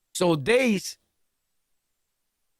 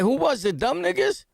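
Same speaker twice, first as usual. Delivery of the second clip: angry demand; 7 semitones higher than usual. Retold or imitated. Demanding who robbed friend.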